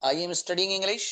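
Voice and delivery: I am studying English, very slow and clear; slow example sentence for students; slow dictation. Shown as a demonstration. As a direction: read it out slowly for the class. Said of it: "example".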